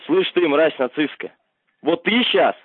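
usual speaking voice

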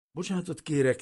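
high, loud chattering apology; acted shivering stammer; stammering, teeth chattering. A narrator's reading. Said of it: "hebegte vacogó szájjal".

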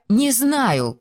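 high-pitched falling reply; helpless answer. A narrator's reading. Wife answers rapid interrogation. (высокий беспомощный ответ)

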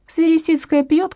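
high, slow gossipy emphasis; gossipy exclamation. A narrator's reading. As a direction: savour the scandal.

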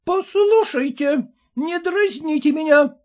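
voiced husband, threatening exclaim. A narrator's reading. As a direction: warn her with the police. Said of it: "воскликнул Порфирий Васильевич".

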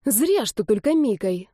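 slow, indignant retort; slow, indignant comeback to the young man; righteous indignation. Acted. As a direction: answer with wounded moral outrage. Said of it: "с праведным негодованием".

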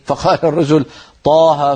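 "طه" said with an open a, taaha; plain open vowels in taha; without imala. Retold or imitated. The man reciting to Ibn Masud, open a.

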